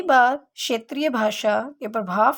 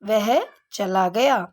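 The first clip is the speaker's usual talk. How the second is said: वह चला गया said slowly with a clear वह; correct sentence, slow; slower than usual. Shown as a demonstration. Teacher giving the correct sentence slowly to the class. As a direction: dictate it slowly. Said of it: "शुद्ध शब्द क्या होगा".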